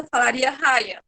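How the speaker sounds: raia said fast as two syllables; clipped glide; quick raia. Shown as a demonstration. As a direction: run raia together quickly. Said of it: "Falaria mais rápido".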